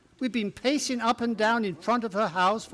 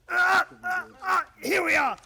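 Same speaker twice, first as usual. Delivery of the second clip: sudden shout of alarm; alarmed cry; 9 semitones higher than usual. Acted. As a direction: yell it out to start the panic. Watson raises the fire alarm.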